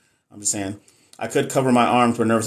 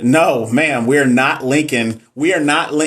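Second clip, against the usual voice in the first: louder, slower, emphatic no; firm playful refusal; 2 semitones higher, 4 dB louder, slower than usual. Real, not acted. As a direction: shut the idea down, laughing it off. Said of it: "firm refusal".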